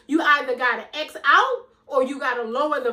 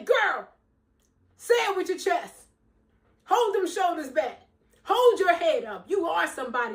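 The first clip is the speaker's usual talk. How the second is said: higher pep talk to herself; voice of her energy; 5 semitones higher than usual. Pretend. Her energy coaching her, higher encouraging pep talk. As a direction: play your own cheering inner voice. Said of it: "my energy say".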